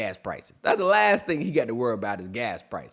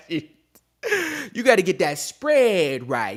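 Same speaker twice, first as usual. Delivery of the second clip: slow, drawn out through laughter; laughing; 3 semitones higher, much slower than usual. Real, not acted. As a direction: laugh your way through the advice.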